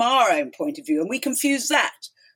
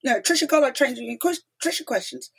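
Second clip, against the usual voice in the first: excited greeting; 7 semitones higher than usual. Retold or imitated. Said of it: "and he said".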